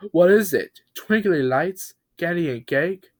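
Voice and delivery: high, quick eager guesses; eager guessing. Acted. Truck guesses what Bob's gift is, high and eager. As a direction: guess like a kid at Christmas.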